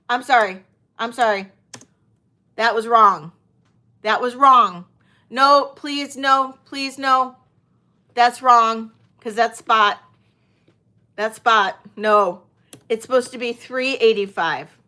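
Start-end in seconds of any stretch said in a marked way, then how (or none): 0.1-4.8 anguished denial. Real, not acted. Apologizing loudly after pricing error. 5.3-12.4 anguished denial. Real, not acted. Frantic correction of price.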